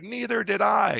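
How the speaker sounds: high-pitched, huffy comeback; mock indignant retort. Joan answers Mac, high and mock-indignant. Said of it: "Joan gets mad".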